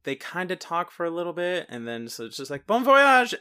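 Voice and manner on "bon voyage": high, louder, breezy goodbye; mock cheery farewell. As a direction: sing it out like a cheerful send-off.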